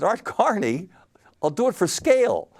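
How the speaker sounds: high, loud, delighted burst; imitating his own eager yes; thrilled retelling. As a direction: jump at the offer with glee. Thrilled reply retold to husband.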